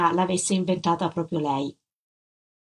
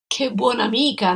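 exclaimed; 3 semitones higher than usual. Acted. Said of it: "non potei fare a meno di esclamare".

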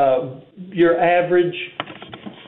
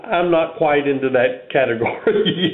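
laughing. Real, not acted. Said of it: "And I can't even say that without laughing".

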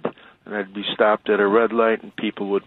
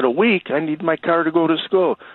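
shocked protest; 7 semitones higher than usual. Retold or imitated. Shocked at week-long repair.

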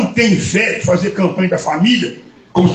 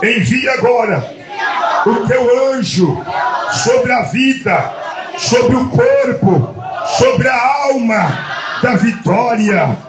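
leading a prayer; 3 semitones higher, much slower than usual. Acted. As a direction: pray it out phrase by phrase for the congregation to repeat. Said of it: "Fala assim comigo".

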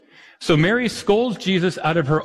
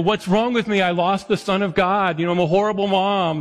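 higher, anxious self-blaming mother; panicked guilty mom; 5 semitones higher than usual. Retold or imitated. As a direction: fret aloud like a mom who lost her kid. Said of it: "Or there's the".

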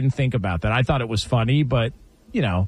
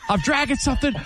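puzzled dad, rising higher, laughing; dad impression; 7 semitones higher than usual. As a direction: redo the puzzled dad while cracking up. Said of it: "Do it one more time".

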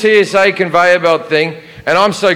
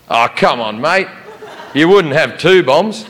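laid-back Australian. Retold or imitated. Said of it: "He went".

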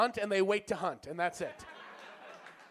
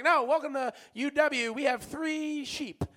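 higher, slow proud announcement; mock promo voice; 6 semitones higher, slower than usual. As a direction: boast about the sheep. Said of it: "It's like".

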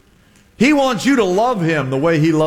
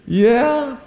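amused Jesus; 6 semitones higher than usual. Acted. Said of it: "I can hear Jesus going".

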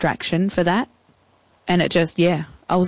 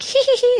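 high mock giggle after a prank call; 3 dB louder than usual. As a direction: giggle like a kid who just pranked someone, high and cheeky. Prank caller giggling before hanging up.

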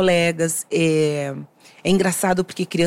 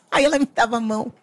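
words broken by a laugh, quick and higher; laughing through tears; 5 semitones higher, much faster than usual. Real, not acted. Recalling her friend holding her hand, laughing and moved. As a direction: laugh and tear up as you say it.

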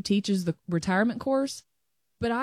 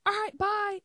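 breezy goodbye; 10 semitones higher than usual. Retold or imitated. Rushing out the door.

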